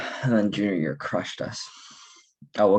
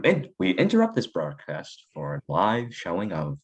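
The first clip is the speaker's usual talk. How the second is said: put-on old radio announcer. Fake broadcast interruption intro.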